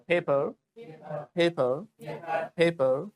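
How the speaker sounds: "पेपर" with a puffed, aspirated first p; model pronunciation. Shown as a demonstration. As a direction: puff air to open each "पेपर". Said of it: "पेपर को आगे से क्या बोलोगे".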